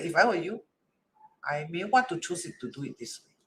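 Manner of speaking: gentle, understated suggestion; nicely. Shown as a demonstration. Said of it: "And I say it nicely".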